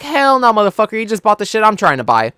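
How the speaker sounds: high-pitched indignant refusal; retold anger. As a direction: act out an outraged objection. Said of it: "Like, I got mad".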